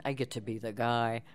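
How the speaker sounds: lightly voiced guy, close to own pitch; a hint of a male character. Shown as a demonstration. Narrator listing audiobook parts, lightly voiced guy. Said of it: "you get to play all the characters".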